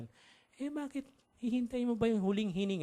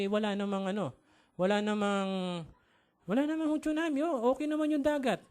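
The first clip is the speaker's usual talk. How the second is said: slightly hammed-up, higher-pitched questioning; lightly voiced reporter; 4 semitones higher than usual. Reporter asking the shouting woman about the tsunami, lightly acted bafflement. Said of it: "biglang may lumabas na reporter".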